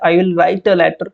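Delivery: slow, deliberate model sentence; careful reading. Shown as a demonstration. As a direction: read each word slowly for students. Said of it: "जब मैं शिमला पहुँच जाऊँगा". (धीमे, साफ़ उच्चारण में)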